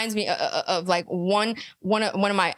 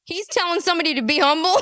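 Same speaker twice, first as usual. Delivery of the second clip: incredulous; 4 semitones higher, 4 dB louder, faster than usual. Real, not acted. Incredulous reaction.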